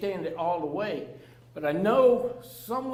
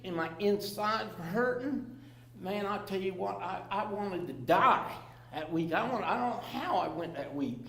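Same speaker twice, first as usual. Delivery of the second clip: hushed; 7 dB quieter than usual. Real, not acted. Telling the group about his withdrawal week, hushed. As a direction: drop the voice, remembering the pain.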